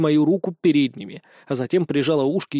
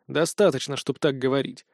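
cold; 3 semitones lower than usual. Acted. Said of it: "холодно ответил я".

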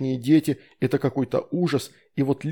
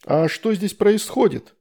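1 astonished; 7 semitones higher, slower than usual. A narrator's reading. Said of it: "изумлённый голос".

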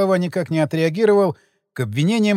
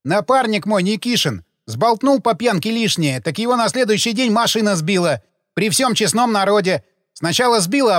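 a gravedigger voiced higher, aggrieved and defensive; sullen gravedigger; 5 semitones higher than usual. Gravedigger protesting his innocence to detectives, aggrieved. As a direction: play the put-upon worker justifying himself.

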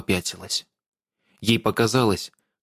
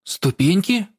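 puzzled; 8 semitones higher, slower than usual. A narrator's reading. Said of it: "переспросила Лисхен".

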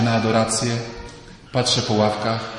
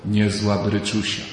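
deadpan understatement; 4 semitones lower, slower than usual. Retold or imitated. Understated male reaction, contrasted.

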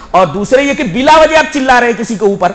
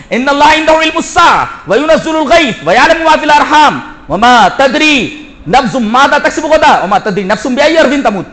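quick, raised-pitch verse recitation; Quran recitation; 3 semitones higher, faster than usual. Acted. Preacher citing scripture to the congregation, reciting. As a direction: recite the verse briskly with ringing conviction.

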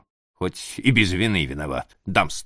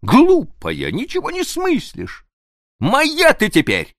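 fond teasing prince; 5 dB louder than usual. Acted. Prince reassures her fondly.

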